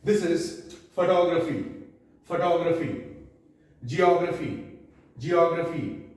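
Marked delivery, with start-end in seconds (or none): 0.9-3.1 photography with the stress on TOG; model pronunciation. Shown as a demonstration. Teacher models photography twice for learners, careful pronunciation. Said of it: "I'll tell you the pronunciation". 3.8-6.0 geography stressed on the O, jee-OG-ruh-fee; model pronunciation. Shown as a demonstration. Teacher gives each word two times, careful pronunciation of geography. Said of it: "the pronunciation of each word two times".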